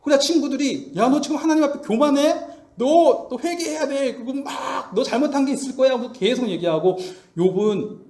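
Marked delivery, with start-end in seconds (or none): 1.0-5.9 higher-pitched mock scolding; accusing. Friends urging Job to repent, accusing. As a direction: press the accusation, lightly acted.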